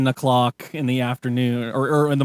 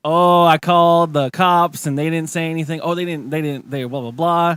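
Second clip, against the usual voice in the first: evasive cover-up. Retold or imitated. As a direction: bluster past the question. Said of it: "she tries to cover it up all sideways".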